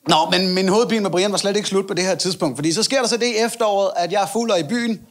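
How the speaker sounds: normal talking voice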